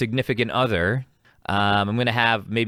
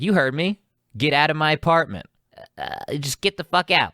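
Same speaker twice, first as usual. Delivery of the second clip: higher-pitched imitation of a fed-up girlfriend; mock angry order; 6 semitones higher than usual. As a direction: throw him out, lightly acted. Acted girlfriend throwing him out.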